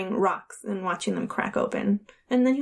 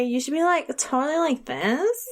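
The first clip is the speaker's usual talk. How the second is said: put-on California accent; 4 semitones higher than usual. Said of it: "Listen, California boy".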